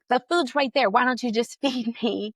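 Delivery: put-on indignant baby voice, half laughing; mock mad baby. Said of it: "he's crying because he's, like, mad".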